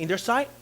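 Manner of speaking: rising question on sight; preacher waiting for the right answer. Shown as a demonstration. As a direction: keep prodding the listeners. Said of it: "Come on, talk to me".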